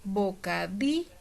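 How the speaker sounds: "Bocadillo" broken after a lengthened, rising DI; teacher isolating the stressed DI of "Bocadillo". Shown as a demonstration. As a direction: hold and lift the DI in "Bocadillo", then pause. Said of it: "una de esas sílabas tiene mayor entonación".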